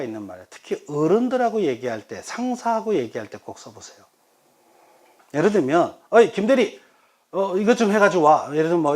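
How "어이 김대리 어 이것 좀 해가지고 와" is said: loud, higher mock boss call; lightly voiced boss ordering a junior; bossy superior. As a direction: call out to a subordinate. Boss calling a subordinate, acted.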